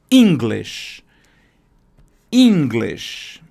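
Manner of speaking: "English" with a loud, hard first syllable; strong first syllable. Shown as a demonstration. Teacher showing the strong opening sound of "English". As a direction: hit the start of "English". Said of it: "o som inicial é mais forte".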